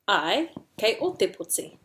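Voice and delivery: rising AI, pause, then falling POTI; agreeing. Shown as a demonstration. Teacher models agreeing in te reo, AI then falling POTI. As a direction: confirm with "Ai", lean on "o", fall away. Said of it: "agree to something".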